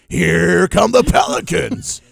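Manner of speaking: slow, loud stretched-out intro; mock arena announcer; hyped announcer. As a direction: drag it out like an arena hype man.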